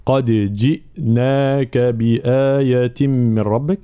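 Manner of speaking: slow, measured Quran recitation; drawn-out teaching recitation; tajweed recitation. Shown as a demonstration. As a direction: recite with bouncing dal, clear i vowels and long held sounds. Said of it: "تحقيق حركة الكسر هنا مع قلقلة".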